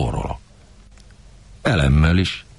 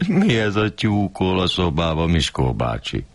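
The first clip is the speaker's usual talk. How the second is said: mocking neighbor; 3 semitones higher than usual.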